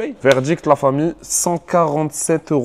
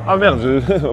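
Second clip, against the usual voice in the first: normal talking voice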